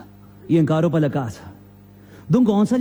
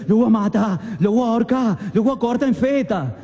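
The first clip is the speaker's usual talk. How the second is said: breathing hard, furious; 4 semitones higher than usual. Acted. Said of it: "respiraba fuerte y decía".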